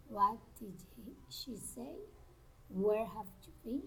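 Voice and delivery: polite questions rising on "say" and "been"; interested rise on the last words "say" and "been"; friendly rising intonation. Shown as a demonstration. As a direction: lift "say" and "been" at the end. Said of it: "rising intonation".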